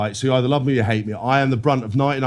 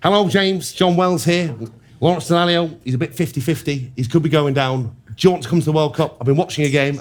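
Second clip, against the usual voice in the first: John Wells; 2 semitones higher than usual. Acted. Prank caller poses as coach calling player up, imitation voice. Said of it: "incredible impression of, um, of John Wells".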